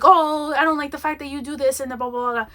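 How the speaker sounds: mimicking a defensive comeback, loud opening "Oh"; imitated huffy retort tapering into blahs; mock defensive. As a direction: hit the first word hard, then rattle off the complaint mockingly. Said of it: "she got really defensive".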